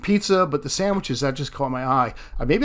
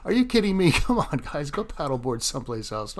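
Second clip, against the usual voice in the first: exasperated disbelief. Real, not acted. Paddleboarders in front of line.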